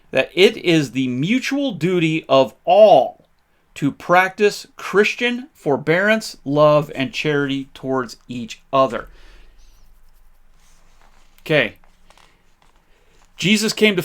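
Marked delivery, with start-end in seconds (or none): 0.1-9.1 reading the clause slowly, leaning on all and Christian; quoting the founding text slowly for the listeners, each word weighted; slow emphatic reading. Shown as a demonstration. Reading the document aloud slow and deliberate. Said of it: "Where it says".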